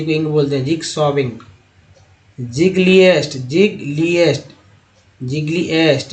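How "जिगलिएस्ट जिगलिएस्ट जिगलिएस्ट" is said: जिगलिएस्ट repeated, each ending in a clear "est"; जिगलिएस्ट, stressing the "est" ending; repeated model word. Shown as a demonstration. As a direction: drill जिगलिएस्ट three times. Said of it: "ईएसटी को एस्ट बोलते हैं".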